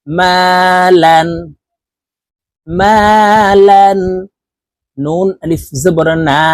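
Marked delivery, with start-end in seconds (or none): 0.1-4.0 মালান drawn out slowly, vowels held; slow recitation. Shown as a demonstration. Teacher chanting মালান for the class. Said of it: "লাম আলিফ দুই জবর লান".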